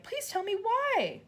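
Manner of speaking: put-on high, slow begging girl; pleading child. A narrator's reading. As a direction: beg slowly. Matilda voiced.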